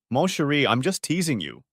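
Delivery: put-on light French accent, teasing; playful wife with a hint of French. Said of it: "said in her best French accent".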